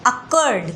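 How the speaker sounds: "अकर्ड" sounded out in two beats; two-syllable demo. Shown as a demonstration. Teacher showing students it has two syllables, syllable demo. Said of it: "हम एक साथ नहीं बोल पा रहे हैं उसको".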